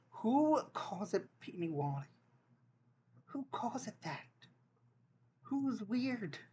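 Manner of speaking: high, incredulous squeak; baffled. Real, not acted. Mocking an odd word for firefly, high and baffled.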